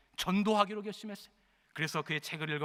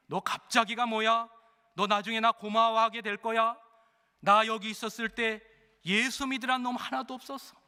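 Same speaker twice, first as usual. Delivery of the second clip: gruff rebuke; 5 semitones higher, 4 dB louder than usual. Acted. Convict scolding a hesitant prisoner, loud and rough. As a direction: cut down his excuse.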